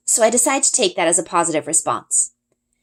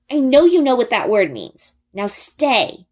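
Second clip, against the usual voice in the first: scolding; 5 semitones higher, 3 dB louder, slower than usual. Acted. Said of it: "I scold".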